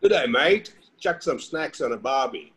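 light Aussie accent with a laugh; Aussie bloke at a barbie; Australian accent. Shown as a demonstration. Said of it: "say something in an Australian accent".

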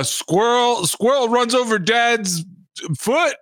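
imitating TV host. Friend mocking home-video show intros, light host voice. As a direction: read the clip title like a TV host. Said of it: "They'd be like".

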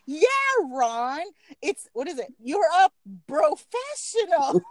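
lightly voiced teasing mother; teasing Jerry. Jerry teasing Ron at Thanksgiving, mock stern. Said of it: "Jerry goes".

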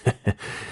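short soft chuckle; laugh. A narrator's reading. Henchman turns to his cousin, short sly chuckle. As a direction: chuckle under the breath in character. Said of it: "笑着对杨进说".

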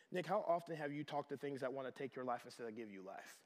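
low, hushed, voiced imitation of a whisper; softly pointed inner prompting; retold whisper. Holy Spirit gently correcting the pastor, retold hushed whisper. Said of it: "I hear the Holy Spirit whisper to me".

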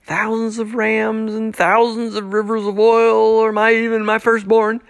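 mock the offer as if it were absurd; facetious. The people sarcastically offering God sacrifices, mocking tone. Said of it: "asking facetiously here".

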